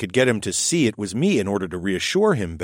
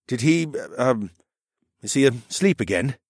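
lightly voiced kindly man; a gentle, joking uncle; 3 semitones higher than usual. Horace speaks.

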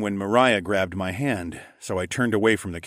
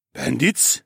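puzzled question, rising and higher; frowning echo; 5 semitones higher, 4 dB louder than usual. A narrator's reading. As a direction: echo the word in doubt. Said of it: "echoed with a frown".

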